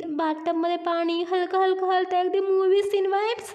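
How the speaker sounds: dramatic gushing. Acted. Friend imagining a movie scene, rising dramatic gush. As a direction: paint it like a film. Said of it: "जरा नाटकीपणाने बोलते".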